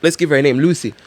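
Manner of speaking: very high mocking voice for the ex; high-pitched parody of the flirting ex; hammed-up smooth guy. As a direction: squeal out a mock sweet greeting. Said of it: "the guy goes like".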